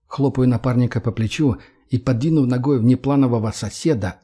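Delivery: ordinary delivery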